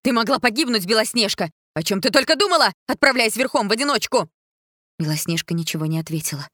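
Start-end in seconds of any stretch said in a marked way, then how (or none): 0.0-4.3 high, loud angry rebuke; queen beside herself with rage; furious scolding. A narrator's reading. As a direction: tear into the reckless girl. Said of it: "Королева была вне себя".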